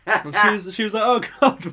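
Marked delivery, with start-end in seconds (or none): 1.0-1.6 high, louder mock alarm; retold shocked exclamation; imitated startled customer. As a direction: act out a bystander taken aback.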